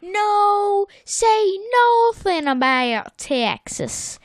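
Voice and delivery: imitating Sandy's mock outrage at the insult; mock outraged Sandy. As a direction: snap back to defend Texas.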